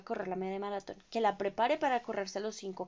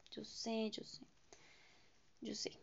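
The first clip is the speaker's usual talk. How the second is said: whisper; 10 dB quieter than usual. Real, not acted. Admits lacking discipline, to herself.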